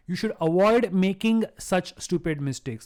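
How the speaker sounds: slow, even read with "making" clear; slow model sentence. Shown as a demonstration. Teacher repeating the correct sentence slowly for the class. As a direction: lay out the right answer slowly. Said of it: "the I N G form is the best thing to put".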